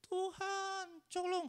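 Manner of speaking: high whining plea, hammed up; mock crying. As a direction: beg God in a fake sob. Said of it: "sambil nangis-nangis".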